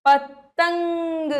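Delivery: पतंग stretched syllable by syllable, very slow; slow drawn-out word. Shown as a demonstration. Teacher spelling out a word slowly for children. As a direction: drag out पतंग slowly for the class. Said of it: "क्या है ये?".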